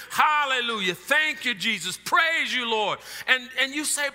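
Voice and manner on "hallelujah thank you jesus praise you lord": demo of praise. Shown as a demonstration. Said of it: "Offer up thanksgiving".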